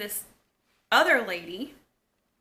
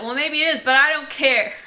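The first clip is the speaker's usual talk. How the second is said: high, loud comeback; mock defiant outburst; 4 semitones higher, 12 dB louder than usual. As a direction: act out shouting back in a quarrel. Acted sisters' quarrel.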